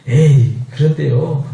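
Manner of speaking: slow, drawn-out reluctant objection; doubtful brush-off. Acted. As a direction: play a doubter giving up, slowly. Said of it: "이러고 포기해버리면".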